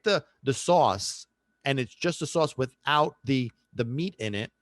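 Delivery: stumbling over words from hunger; hungry, tripping on the words; stuttering. Real, not acted. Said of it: "so I'm stuttering".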